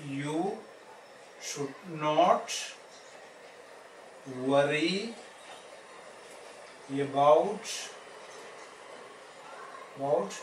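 long pauses after each word or two; word-by-word dictation. Real, not acted. Teacher writing the assertive sentence for students, slow word-by-word dictation. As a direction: dictate it slowly as you write, one word at a time.

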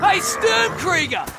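calling out. Acted. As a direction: call his name slowly from afar. Calling out to a comrade.

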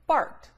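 barked lifted high and loud as a question; a teacher's prompting question; rising question on barked. Shown as a demonstration. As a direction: ask it, pushing barked up. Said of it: "we're going to say".

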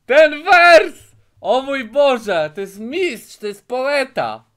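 high, loud, slow mock awe; gushing praise. Real, not acted. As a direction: rave about it like genius. Gushing over the rap lyrics.

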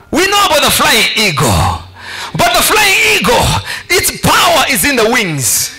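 forceful, punchy sermon delivery; preaching. Real, not acted. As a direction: preach it out to the congregation in bursts.

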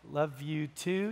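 hesitant, mildly uneasy reply with a lift at the end; acted awkward reciprocation. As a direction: say it back awkwardly, unsure, as if obliged. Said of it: "You just feel a little awkward".

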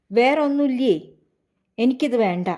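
a touch of sulky anger, lightly acted; hardened voice. Son refusing the breakfast his mother served, mildly hardened voice. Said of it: "അവൻ്റെ സ്വരം കടുത്തപ്പോൾ".

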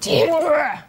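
weak attempt at a Scottish accent; a clumsy Scottish accent on one word; bad Scottish accent. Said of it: "That's probably the worst Scottish accent".

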